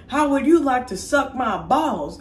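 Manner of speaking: high, slow cartoon schoolboy; cheeky kid voice. Schoolboy answers teacher's threat back, cheeky high voice. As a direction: talk back in a put-on kid voice.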